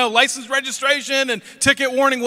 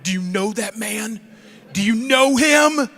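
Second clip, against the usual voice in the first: a hint of a stern trooper; slower than usual. Trooper questioning the kid about his dad, slow and stern. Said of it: "and he says".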